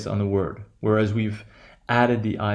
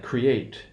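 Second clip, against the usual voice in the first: create as cre-ATE; stress on second syllable. Shown as a demonstration. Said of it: "the O one stress pattern".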